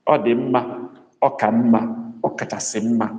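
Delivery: Ọ dị mma, ọ ka mma, ọ kachasị mma, each step set apart; Igbo comparison drill. Shown as a demonstration. Teacher to class, giving the Igbo steps one by one. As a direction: step through each form. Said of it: "I hope I'm making sense here".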